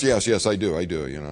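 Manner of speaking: put-on timid boy bluffing; nervous boy lie. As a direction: fake confidence nervously. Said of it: "I'm like".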